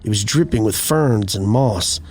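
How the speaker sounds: measured storytelling read, pausing between phrases; unhurried campfire-tale narration; story narration. A narrator's reading. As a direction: read an eerie first-person account evenly and deliberately. Reads out a first-person eerie account.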